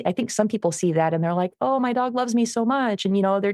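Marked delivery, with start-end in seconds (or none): 1.6-3.1 gushing owner. Retold or imitated. Mocking doting dog owners.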